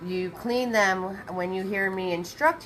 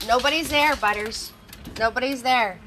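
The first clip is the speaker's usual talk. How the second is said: telling the dog off; 2 semitones higher, 3 dB louder than usual. Real, not acted. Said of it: "I have to tell him nobody's at the house".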